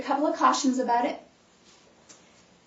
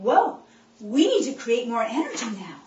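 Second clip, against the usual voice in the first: voicing cells; 4 dB louder than usual. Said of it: "Your cells are saying".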